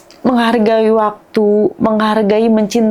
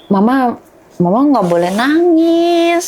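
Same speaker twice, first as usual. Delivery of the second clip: lightly voiced child, higher at the end; a hint of a little child's plea; imitating young daughter; 5 semitones higher than usual. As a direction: gently mimic a child telling mama off. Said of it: "dia selalu bilang gini".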